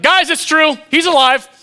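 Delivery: high, loud, breathless-news excitement; acted freaking out. Disciples telling the others he's alive, frantically excited. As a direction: burst in with amazing news. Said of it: "They're freaking out".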